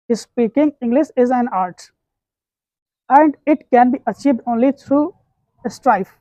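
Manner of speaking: each English word spelled out very slowly; slow dictation. Shown as a demonstration. Teacher dictating an English line to students, very slowly.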